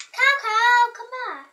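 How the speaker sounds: whiny, pleading fussy voice. Acted. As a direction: fuss at the cow like a toddler. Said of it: "this is my fussy voice".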